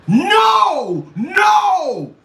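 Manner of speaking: loud high protesting yell; a real amused outcry; laughing shout. Real, not acted. Laughing outburst at a chat comment.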